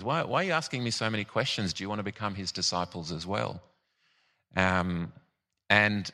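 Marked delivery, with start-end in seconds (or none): 0.0-3.6 quick, mildly sarcastic questioning; lightly mocking, fast retold comeback; sarcastic retort. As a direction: toss out the questions with a touch of sarcasm. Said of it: "quite sarcastically, he says".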